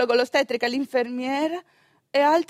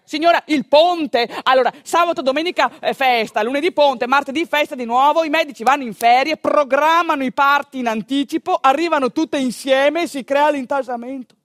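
brisk explaining. Retold or imitated. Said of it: "mi fa l'ostetrica".

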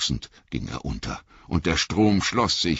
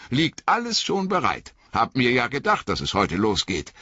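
high, hurt, shivering reproach; a wet hobbit stung by his master; Sam, cold and soaked, reproaching Frodo in a high voice; 8 semitones higher than usual. Acted.

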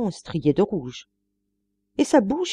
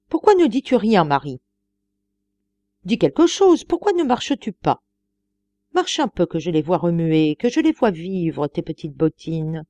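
excited pleading. Acted. Master urging maid, growing excited.

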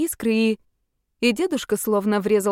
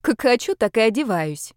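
defiant; 3 semitones higher than usual. Acted. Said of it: "дерзко отозвалась девочка".

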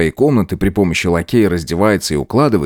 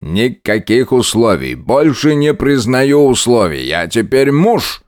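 tipsy groom; 3 semitones higher, slower than usual. Acted. Drunk groom asserts himself.

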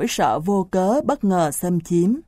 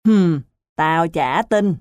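slow, scornful grunt of disbelief; scornful snort; 3 dB louder, slower than usual. Acted. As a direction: huff and dismiss it slowly. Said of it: "Tần hừ mũi". (hừ mũi khinh khỉnh, chậm rãi)

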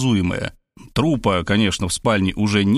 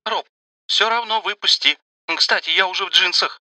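put-on high, chirpy young girl voice; bubbly sorority girl; 8 semitones higher than usual. A narrator's reading. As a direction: bounce it like an excited teen. Varvara girl voice.

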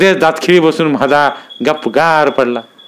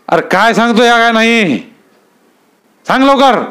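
furious demand; 9 semitones higher than usual. Acted. Dada roars at the fisherman to talk, furious. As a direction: bellow it at him.

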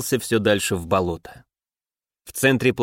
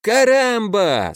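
put-on drunken cheer; 9 semitones higher, much slower than usual. Pirates below echo the captain's battle cry, drunkenly cheering. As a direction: whoop it back like a tipsy pirate crew. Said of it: "с пьяным весельем донеслось".

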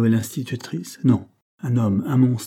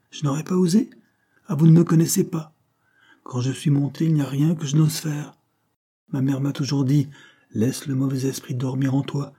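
higher-pitched, defiant retort; indignant boast; 6 semitones higher than usual. A narrator's reading. Governess answering Herbert's doubt that she'd dare, indignant and defiant. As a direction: bristle at being doubted.

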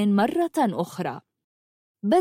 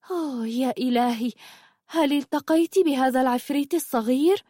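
higher-pitched amazed question; astonished; 4 semitones higher than usual. Acted. Zumurrud hears Habiba met the little imp, astonished. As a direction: react with delighted disbelief.

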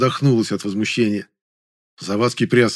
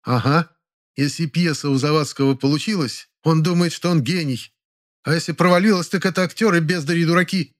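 high, vengeful gloating; spiteful voice; vindictive; 6 semitones higher than usual. Acted. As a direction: relish the jab. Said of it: "мстительным голосом".

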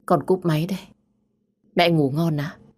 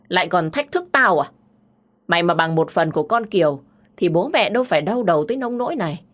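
a shrill-free but raised, furious scolding, pitch jumping up on the insults; angry mother scolding; 2 semitones higher than usual. Acted. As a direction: scold her child like a mother at the end of her patience. Mother scolding daughter angrily.

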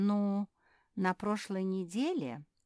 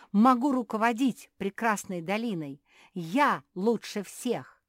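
shouting; 5 semitones higher, 11 dB louder than usual. Acted. Beatrice keeps shouting boasts.

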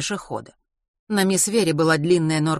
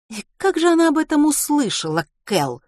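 high, louder, tense question; through gritted teeth; 11 semitones higher, 5 dB louder than usual. A narrator's reading. Ruth confronts Cal about the gossip, seething. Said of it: "процедила сквозь зубы Рут".

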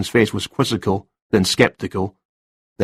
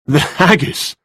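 amused, higher-pitched query; smile in the voice; 6 semitones higher, slower than usual. A narrator's reading. Detective to writer about book topic, warmly amused. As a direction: let a warm smile creep into the question. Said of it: "couldn't disguise a smile in his voice, warmer this time".

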